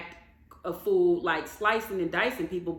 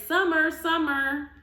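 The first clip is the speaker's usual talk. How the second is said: mock yelled calling through a door, higher; 6 semitones higher, 4 dB louder, slower than usual. Marlo banging on the hotel door, calling out loud. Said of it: "she's banging on the door saying".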